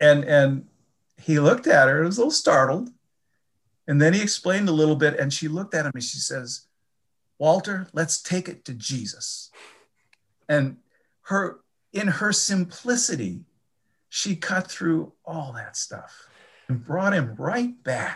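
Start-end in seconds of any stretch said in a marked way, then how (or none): 7.4-9.5 put-on speaking in an Alabama accent. Retelling a woman's simple reply to a startled man, in her alabama accent. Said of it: "And with her Alabama accent".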